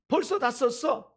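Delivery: high, drawn-out mock disbelief; scolding mother. Mother to a child who spent the allowance, high slow scolding. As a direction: stretch it out like an exasperated mom. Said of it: "아이들이 엄마한테".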